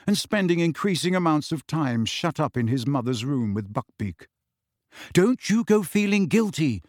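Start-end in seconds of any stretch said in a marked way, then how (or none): 5.1-6.8 stern. A narrator's reading. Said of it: "said Hermione sternly".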